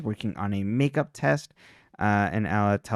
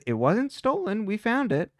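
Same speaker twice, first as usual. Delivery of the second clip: put-on defensive teen; 10 semitones higher than usual. Defensive teen quote in recap.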